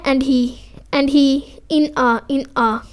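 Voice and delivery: "and he", "in a" with no syllable stressed; both unstressed. Shown as a demonstration. Teacher giving pyrrhic examples, "and he", "in a" unstressed. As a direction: keep "and he", "in a" light and even. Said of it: "unstressed हैं".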